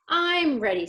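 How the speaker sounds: put-on high, loud, eager kid's voice; an impatient child ready to leave; eager little girl. Girl character voiced in story.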